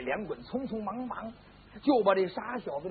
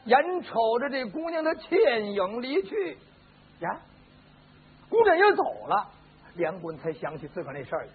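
ordinary delivery, nothing marked

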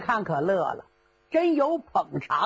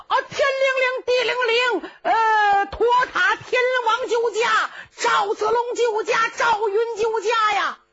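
much higher, frantic cry for rescue; desperate yelling; 11 semitones higher, 4 dB louder than usual. Acted. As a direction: scream the spell until hoarse. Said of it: "程咬金嗓子都喊哑了". (声嘶力竭地喊救驾)

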